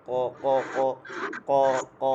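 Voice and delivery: "ক" hard, made back in the throat. Shown as a demonstration. Teacher correcting the ordinary K, hard throaty "ক". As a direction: strike "ক" firmly from the throat. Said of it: "কণ্ঠ থেকে".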